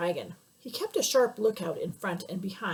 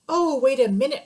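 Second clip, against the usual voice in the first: urgent plea; 4 semitones higher, 7 dB louder than usual. Acted. Father stops the rhinoceros.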